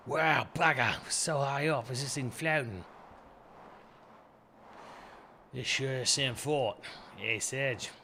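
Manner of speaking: put-on brash Australian girl. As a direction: read Kid's lines with a hint of Aussie swagger. Reads Kid's dialogue aloud.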